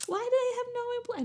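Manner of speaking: mock incredulous who-works-here; loud baffled disbelief; baffled question. Retold confused question at shop.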